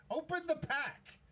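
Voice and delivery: high, drawn-out yell at the screen; pleading yell. Real, not acted. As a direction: beg them to open it, slowly. Urging players on recorded video.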